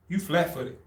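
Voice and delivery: soft, matter-of-fact examiner; deadpan verdict. Retold or imitated. Examiner to recruit at boot fitting, deadpan. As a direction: drop it quietly, imitating her indifference.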